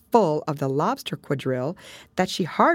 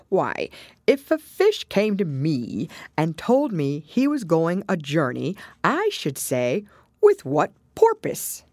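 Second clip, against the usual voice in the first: Mock Turtle; 3 semitones higher than usual.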